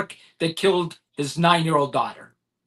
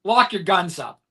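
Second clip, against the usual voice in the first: exasperated appeal, drawn out for weight; impassioned plea; 2 semitones higher, slower than usual. Real, not acted. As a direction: beg them, stretching every word out. Pleading with listeners about guns.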